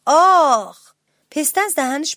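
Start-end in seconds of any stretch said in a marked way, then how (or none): 0.1-0.9 loud, higher yelp of sudden pain; pained shout. A narrator's reading. Little mouse bites a hard pistachio, shouting in pain. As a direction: cry out loudly as if hurt. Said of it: "داد زد".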